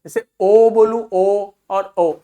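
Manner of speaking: "ओ" said once long and drawn out, once short and clipped; long and short vowel demo. Shown as a demonstration. Teacher showing students long versus short "ओ", drawn out then cut short. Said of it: "long sound, short sound".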